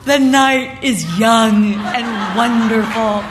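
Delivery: slow, mock-blissful delivery; imitating a delighted boy, drawn out; beatific grandson. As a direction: savour every word with a blissful smile. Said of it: "he's just got this beatific smile".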